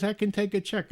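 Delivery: high mock Indian-accented agreement. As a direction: imitate an obliging caller with an Indian accent. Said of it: "he's got a very thick Indian accent".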